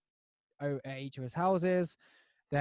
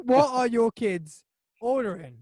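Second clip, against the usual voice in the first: raised, loud disbelieving question; incredulous question; 7 semitones higher, 7 dB louder than usual. Real, not acted. Friend questioning customer about kids' order, loudly incredulous. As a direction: repeat it with loud disbelief, short of squealing. Repeats squealed question less high.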